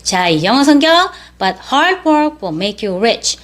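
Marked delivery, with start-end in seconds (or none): 1.4-3.4 slightly quicker memory recitation; careful model, slightly sped up; a little faster. Shown as a demonstration. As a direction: recite a touch more briskly. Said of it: "똑같은 문장인데 조금 빨리".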